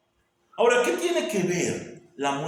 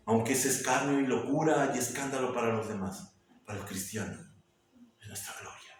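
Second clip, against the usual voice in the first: much softer, fading to a whisper; intimate hush; 4 semitones lower, 6 dB quieter, faster than usual. Acted. Preacher to believers about the cross as glory, hushed. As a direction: let it fall to a confiding whisper.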